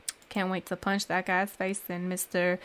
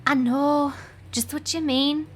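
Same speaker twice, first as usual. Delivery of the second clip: lightly acted, higher-pitched game heroine; a hint of a higher character voice; lightly voiced quest heroine; 6 semitones higher than usual. Heroine commiserating with a frustrated knight, lightly voiced in character.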